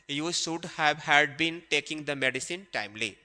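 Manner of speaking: "You should have had been taking the medicine timely" said slowly, word by word; slow dictation. Shown as a demonstration. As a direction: spell it out slowly for the class. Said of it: "teacher dictating the full sentence". (धीमे-धीमे, शब्द-शब्द बोलकर लिखवाना)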